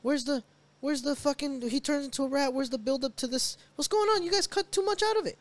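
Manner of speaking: high, exasperated rant at the movie; outraged disbelief. Retold or imitated. Fan ranting at the movie's cuts, high and outraged. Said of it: "And now I'm like".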